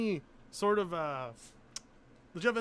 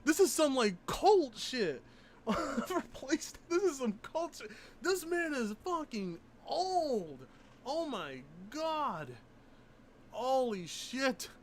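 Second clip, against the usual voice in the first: high, loud, amused disbelief; real amused shock, drawn out slowly; incredulous laughing; 8 semitones higher, 3 dB louder than usual. Real, not acted. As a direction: gasp through the laughter at the photo. Laughing at absurd photo.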